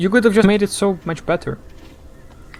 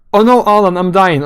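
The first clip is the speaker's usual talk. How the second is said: louder, a hammed-up melodramatic plea; mock dramatic dying line; 3 semitones higher, 7 dB louder than usual. Barry moaning to Alan over the phone, mocking melodrama. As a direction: parody a cheesy death over the phone.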